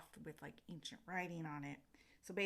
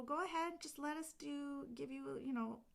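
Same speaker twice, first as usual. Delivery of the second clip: fairy voice; 9 semitones higher than usual. Retold or imitated. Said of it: "So they're like".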